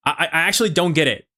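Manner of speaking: the same line in his put-on American accent; learned American English accent. Shown as a demonstration. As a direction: switch on the gringo accent for this line. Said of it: "let me turn it on".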